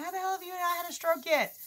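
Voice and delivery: high, loud mock disbelief; incredulous doctor. Doctor to patient about a stroke, incredulous. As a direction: blurt it like a stunned doctor. Retells the shocked doctor's question.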